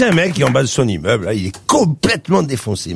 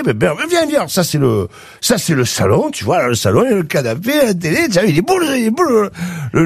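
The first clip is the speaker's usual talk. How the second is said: much higher, slurring, overexcited wasted man; stoned drunk guy; 5 semitones higher than usual. Acted. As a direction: invite your friend home, totally wasted. Stoned guy shows apartment.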